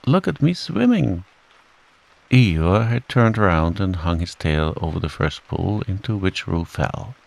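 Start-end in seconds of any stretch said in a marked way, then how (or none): 0.1-1.2 high, gleeful little voice; Roo's squeak. A narrator's reading. Roo answering Kanga from a pool, squeaking. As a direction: pipe up high, showing off. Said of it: "was answering".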